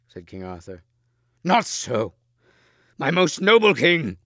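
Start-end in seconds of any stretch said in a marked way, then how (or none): 1.4-4.2 high, loud protest; crying out. A narrator's reading. Gawain objecting to the king's order, crying out. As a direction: burst out in forceful objection. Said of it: "cried Gawain".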